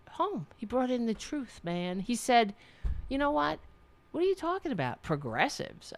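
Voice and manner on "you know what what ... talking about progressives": high, incredulous snap back; exaggerated version of his comeback; mock exasperated retort. Retelling a guest's rebuttal, exaggerated incredulous. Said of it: "he didn't say it like this".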